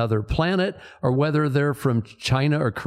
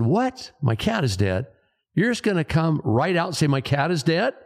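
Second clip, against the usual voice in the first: a jolting high What, then indignant questions; shocked disbelief; 4 semitones higher than usual. Acted. Man on the phone hears his cat died, shocked disbelief. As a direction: play the stunned pet owner hearing blunt news.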